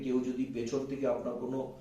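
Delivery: usual speaking voice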